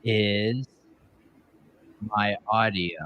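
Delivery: slow, muffled, like through a door; words muffled by a bad mic; muffled audio. Real, not acted. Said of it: "you were talking so slow".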